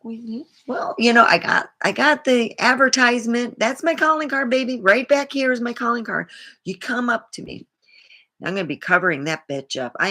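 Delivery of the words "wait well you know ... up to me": higher and louder mock outrage; mock outrage over a tattoo; indignant protest. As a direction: protest like you've been wronged. Acted indignant reply.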